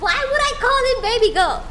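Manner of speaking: high, loud, laughing disbelief; laughing protest. Real, not acted. Streamer objecting to viewers' name for the cat, high laughing protest. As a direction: laugh through an incredulous question.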